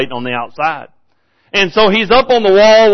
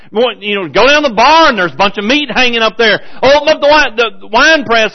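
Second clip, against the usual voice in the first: lightly mocking, higher offhand reply; sarcastic retort; 4 semitones higher than usual. King brushes off the woman, mildly sarcastic. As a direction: toss it off with mild sarcasm. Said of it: "But he was being sarcastic".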